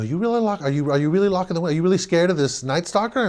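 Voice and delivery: can't believe his son; father teasing son about the killer; incredulous father. Retold or imitated.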